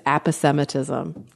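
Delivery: aposematism said ap-uh-SEM-uh-tism; dictionary pronunciation. Shown as a demonstration. Host reporting what multiple places say, dictionary pronunciation. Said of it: "I'm hearing in multiple places".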